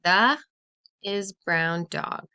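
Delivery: The called out loud, then slow puzzled is brown dog; trying a wrong order. Shown as a demonstration. Teacher trying a wrong word order, slow and doubtful. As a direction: test the words, sounding unsure.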